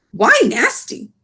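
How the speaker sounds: a touch puzzled, slow; lightly voiced frowning giant. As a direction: BFG puzzled by Sophie, mild frown. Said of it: "asked the B F G, frowning".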